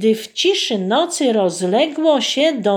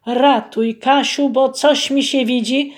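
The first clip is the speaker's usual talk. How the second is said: groaning plea; 3 semitones higher, 4 dB louder than usual. Acted. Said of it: "jęknął".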